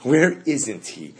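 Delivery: drawn out slowly, each word weighed; slow, emphatic answer. Shown as a demonstration. Teacher to class, answering the rhetorical question slowly. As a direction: let the answer land slowly. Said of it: "the rhetorical question is answered by saying".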